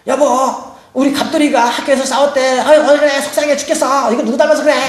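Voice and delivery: mock exasperated mom; upset mother. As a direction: whine to your husband about the son. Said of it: "엄마는 이제 직장에 있는 아빠한테 또 전화를".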